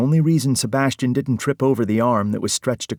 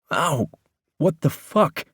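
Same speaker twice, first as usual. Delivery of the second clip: sharp ow, then a higher cursing what the fuck; pained curse; 7 semitones higher, slower than usual. Acted. Struck by a phone, a pained startled curse. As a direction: hit by a thrown phone, he yelps and curses. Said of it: "Sebastian cursed".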